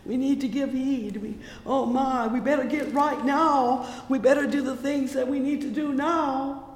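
fervent full-voiced preaching; preaching at full force. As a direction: pour it out like a revival climax. Preaching climax, music behind.

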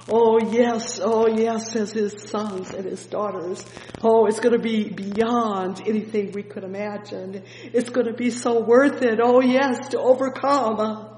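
loud, rising preacher's cry; fervent preaching. Acted. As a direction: preach it out with fire.

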